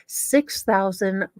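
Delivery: lightly voiced prim letter writer, self-righteous; reading the letter in character. Host reads inmate's letter to viewers, a lightly voiced prim letter writer. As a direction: read it like the wronged letter writer, only a touch put-on.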